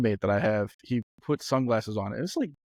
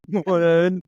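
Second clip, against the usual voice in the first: mock loud counting; 6 semitones higher, 7 dB louder than usual. Blind guy counting nuggets.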